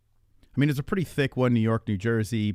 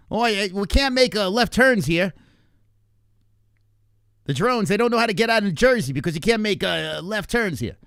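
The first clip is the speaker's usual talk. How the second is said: mock Jersey accent; 7 semitones higher, 4 dB louder than usual. Mocking Jersey no-left-turn drivers.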